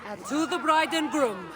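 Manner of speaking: a lively toast recited in verse; rhymed wedding toast. Acted. Guest toasting the bride and groom, a lively recited verse. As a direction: raise the glass and deliver the rhyme. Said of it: "Please, regale us with your tale".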